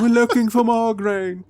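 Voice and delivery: high-pitched mock yell; hammed-up high call. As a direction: holler it through the fence bars.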